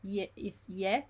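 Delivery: slow ie, i gliding into e; both vowels sounded. Shown as a demonstration. Teacher shows it's not E, slow vowel demo. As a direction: stretch ie so both vowels show. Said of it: "it's not E".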